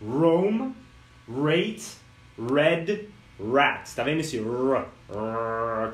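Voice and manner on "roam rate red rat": "Roam", "Rate", "Red", "Rat" with a growled R; English R drill. Shown as a demonstration. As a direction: repeat the words, R growled. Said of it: "Fala aí comigo".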